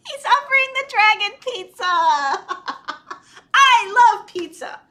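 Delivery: high, loud, laughing delight; tickled, excited aside. Real, not acted. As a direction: gush through real giggles. Amused by the pizza offer.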